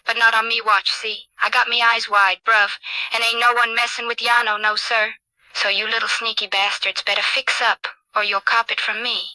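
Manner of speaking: lightly voiced cocky British street character; lightly played watchdog, warning off troublemakers; streetwise Ozzy Ostrich.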